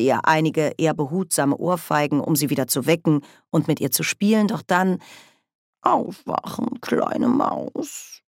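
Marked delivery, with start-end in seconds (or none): 5.8-8.2 high, whispered coaxing; teasing whisper. A narrator's reading. Grebo wakes the fainted mouse in a high teasing whisper. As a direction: breathe it playfully at the mouse.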